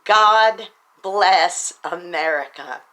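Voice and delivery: slow, drawn-out proud proclamation; proclaimed loud. Real, not acted. Urging fellow Americans to join in, slow and proud. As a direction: say it slowly for all to hear. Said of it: "join with me and say it loud".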